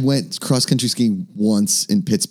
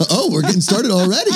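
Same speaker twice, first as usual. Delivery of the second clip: high-pitched retold delight; mock excitement; 9 semitones higher than usual. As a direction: act out being thrilled at the surprise. Retelling delight at an early beer.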